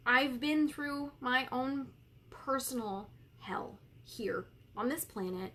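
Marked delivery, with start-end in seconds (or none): 2.3-5.5 whisper. Real, not acted. Confessing her darkest time.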